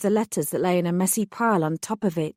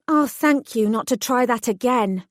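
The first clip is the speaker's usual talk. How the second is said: admonishing; 4 semitones higher than usual. Acted. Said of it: "I admonished him".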